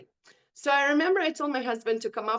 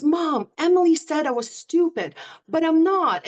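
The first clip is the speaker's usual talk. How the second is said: imitating a crying daughter; 5 semitones higher, 6 dB louder than usual. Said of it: "she comes home from school and she's crying".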